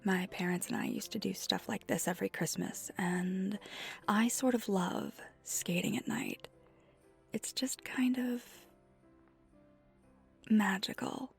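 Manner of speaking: soft, wistful reminiscing; soft fondness. Acted. Skater shares a fond Christmas memory with a newcomer, softly wistful. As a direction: share it softly, a touch dreamy.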